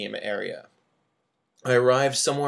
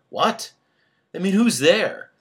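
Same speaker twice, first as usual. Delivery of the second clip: high, loud, shrill call; high-pitched voice; 8 semitones higher, 7 dB louder than usual. Acted. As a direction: pitch up for the character. Phone call with Tina.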